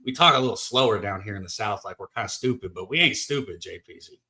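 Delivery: playful Southern country accent, lightly done. Shown as a demonstration. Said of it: "I can put on a little country accent".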